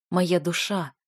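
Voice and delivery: usual speaking voice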